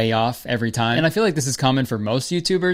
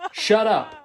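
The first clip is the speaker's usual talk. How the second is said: mock crying; 8 semitones higher than usual. Crying wife voice.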